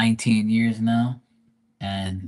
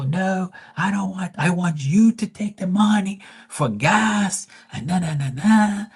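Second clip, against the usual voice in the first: much higher mock mom voice; mom's voice; 10 semitones higher than usual. Mother refusing the paper towels, in a much higher mock voice. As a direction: play mom waving off his offer, pitched up high.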